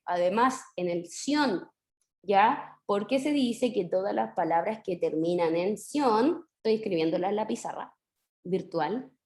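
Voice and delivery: ordinary talk, nothing marked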